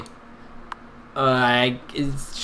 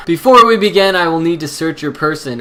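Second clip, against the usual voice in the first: inspector voice; 2 semitones higher, 5 dB louder than usual. Acted. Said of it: "the voice I was doing".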